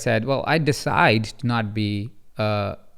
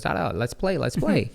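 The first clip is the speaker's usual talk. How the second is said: eager little son; 3 dB quieter than usual. Retold or imitated. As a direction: imitate a toddler asking to play. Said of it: "And Ari goes".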